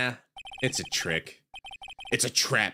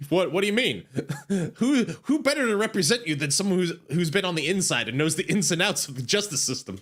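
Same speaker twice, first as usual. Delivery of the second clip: higher and laughing through it; light laughing higher voice; giggly sidekick; 6 semitones higher than usual. Acted. Maya giggling, arguing point.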